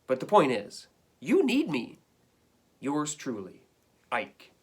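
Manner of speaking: lively read-aloud of a dog's complaining letter; reading to children. Acted. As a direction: read it to the class like a hard-done-by pet. Teacher reads dog's letters aloud.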